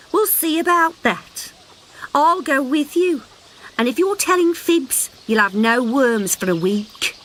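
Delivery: high mother voice, mildly scolding; scolding mother frog. Acted. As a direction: tell the child off lazily.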